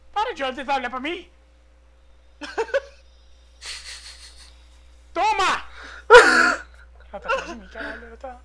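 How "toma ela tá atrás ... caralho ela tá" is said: loud, high frantic yelling, laughing; panicking gamer. Real, not acted. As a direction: shout as she chases you. Monster chasing him in game.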